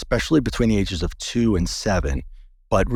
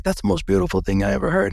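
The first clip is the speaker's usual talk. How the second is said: much higher, quick gushing voice; moved acupuncturist; 10 semitones higher, faster than usual. Retold or imitated. Acupuncturist hearing his story, higher and gushing. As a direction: gush it out, touched. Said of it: "She's like".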